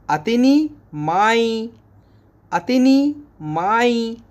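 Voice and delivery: अतनी माई said slowly, stress on अतनी; slow Arabic model. Shown as a demonstration. Teacher drilling Arabic for water. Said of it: "इसको बोलेंगे".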